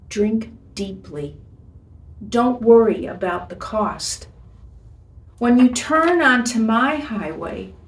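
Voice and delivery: tender letter reading. Acted. Reads God's love letter aloud.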